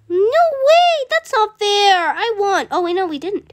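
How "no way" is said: shocked protest. Real, not acted. Protest at dying.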